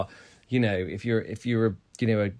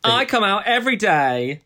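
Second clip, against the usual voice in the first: laughing; 9 semitones higher, 3 dB louder than usual. Real, not acted. Cheeky joke with laugh.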